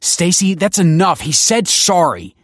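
high, loud urgent plea; urging. Acted. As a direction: urge her to stop. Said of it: "urged Kelsey".

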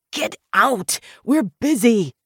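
high, loud dismissal; irritable shout. A narrator's reading. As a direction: shout to send an intruder away. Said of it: "impervious to his shouting".

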